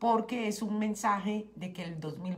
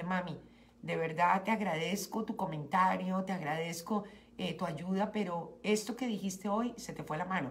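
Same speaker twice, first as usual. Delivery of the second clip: gentle. Retold or imitated. Gentle talk to her mother.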